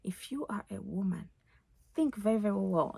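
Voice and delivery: earnest African accent. Real, not acted. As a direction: speak it from the heart, African accent. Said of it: "now my African accent is out".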